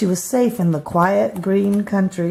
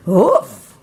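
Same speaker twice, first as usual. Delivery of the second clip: dog bark; 4 dB louder than usual. Acted. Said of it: "barked a fierce, angry voice".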